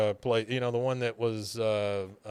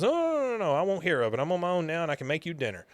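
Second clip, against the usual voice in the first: Luann fussing; 5 semitones higher, much faster than usual. Retold or imitated. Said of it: "She goes".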